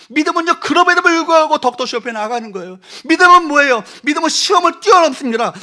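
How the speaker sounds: loud, high fervent preaching; preaching at full force. Acted. Pastor rousing the congregation, loud and high. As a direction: drive it home to the congregation.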